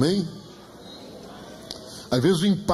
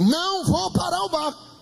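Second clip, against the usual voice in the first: high, forceful no as God; emphatic refusal; 9 semitones higher than usual. Retold or imitated. God refusing to stop the boat, emphatic refusal. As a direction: refuse with a ringing, raised pitch. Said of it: "Aí ele disse".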